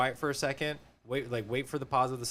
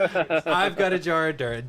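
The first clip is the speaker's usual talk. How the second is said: Jack Sparrow voice; 5 semitones higher, 5 dB louder, slower than usual. Retold or imitated. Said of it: "A K A".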